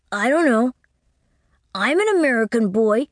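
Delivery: put-on high child voice; proud small boy; little boy. A narrator's reading. Boy answering Winterbourne, high and proud.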